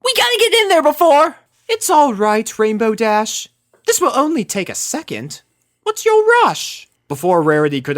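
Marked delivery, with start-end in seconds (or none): 0.0-1.4 very high, loud and fast; rushed Rainbow. Acted. Rainbow urging in panic. 1.7-6.9 high, refined voice, airy and unbothered; breezy, ending on a lifted question; Rarity brushing off Rainbow's hurry; unhurried Rarity. Acted. Rarity calmly unlocking door.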